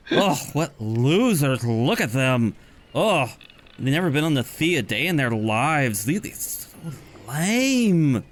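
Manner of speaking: slow, drawn-out mocking sneer; sneering Triton. Second Triton mocks the party, slow sneering voice. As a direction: stretch out lame with contempt. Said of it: "And the other one says".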